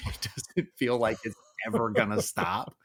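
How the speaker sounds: said through a wry laugh. Real, not acted. Dad jokes about raising a teenage girl, laughing. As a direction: let laughter break into "ever gonna stop".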